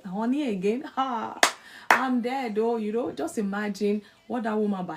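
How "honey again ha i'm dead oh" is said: shocked wife. Retold or imitated. Wife's shocked inner reaction.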